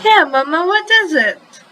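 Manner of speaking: put-on high, eager child asking Mama; excited kid voice. A narrator's reading. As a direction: burst out with curious, high-pitched questions. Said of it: "Feliciano asked excitedly".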